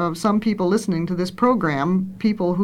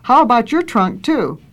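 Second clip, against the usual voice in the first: storybook reading with lightly lifted dialogue; story narration. A narrator's reading. Reader tells how the boy grew up, story narration. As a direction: read a children's tale aloud, lifting the questions.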